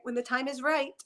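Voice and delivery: lightly voiced gentle old teacher; grandmother's voice. Medium repeats the grandmother's reassurance, mildly sweet. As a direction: say it like a patient granny tapping a pointer stick. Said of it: "she talks in this voice".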